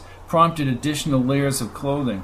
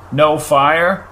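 shouted; 2 semitones higher, 6 dB louder than usual. Acted. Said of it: "shouted Antovian".

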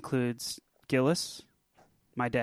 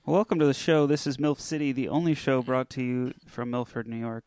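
podcast host intro. Acted.

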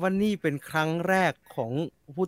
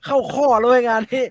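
higher, louder gloating at his luck; mock delighted thought, louder and higher; gleeful inner voice; 6 semitones higher, 4 dB louder than usual. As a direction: crow over the lucky break, louder. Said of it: "แกสามารถพูดได้เต็มปาก".

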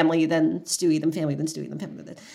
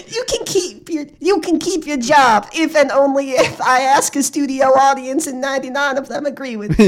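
Steve Harvey impression; 4 semitones higher than usual. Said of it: "He's like".

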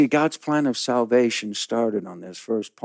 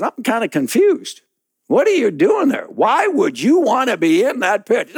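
lightly voiced puzzled Confucius; a hint of a bemused sage looking down; 9 semitones higher, 4 dB louder than usual. Confucius puzzled at the man in the pit, mildly voiced. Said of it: "he says".

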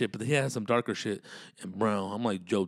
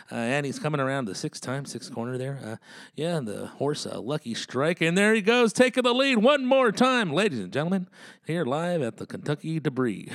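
higher, building to a shouted race call; horse race announcer; 4 semitones higher, 4 dB louder than usual. Pretend. Mock announcer calling the horse race for friends. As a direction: call the race like it's the Kentucky Derby.

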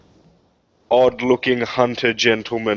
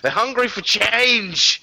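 campaign speech; 10 semitones higher than usual. Acted. Political speech parody.

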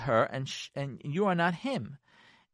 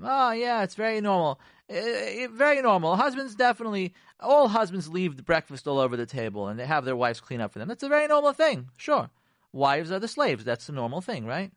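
higher, mocking sarcastic praise; 4 semitones higher than usual. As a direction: pretend to agree while mocking. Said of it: "That's sarcasm".

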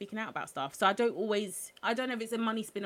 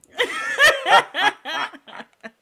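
loud laugh; 11 semitones higher, 16 dB louder than usual. Real, not acted. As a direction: burst of high laughter. Apologising for not opening box.

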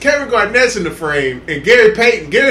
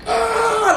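mock scream; 13 semitones higher than usual. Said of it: "like, screaming and shit".

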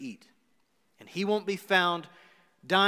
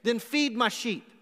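firm mandate; 4 semitones higher, slower than usual. Retold or imitated. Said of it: "I needed to give you a mandate".

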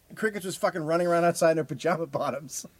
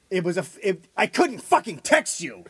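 imitated screaming fight; 6 semitones higher, 7 dB louder than usual. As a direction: mimic an arguing girlfriend yelling. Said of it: "are fucking screaming at each other".

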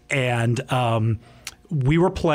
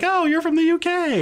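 much higher, mock-impressed exclamation; mimicked excited locals. Locals reacting to a British accent, mimicked high and excited. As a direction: imitate people exclaiming over a foreigner.

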